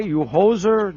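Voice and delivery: put-on weak stab at a Green Bay accent; bad Green Bay accent. Host tests how Green Bay fans speak, unconvincing Green Bay accent. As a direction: badly fake a Green Bay accent, lightly. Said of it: "I'm so bad at that accent".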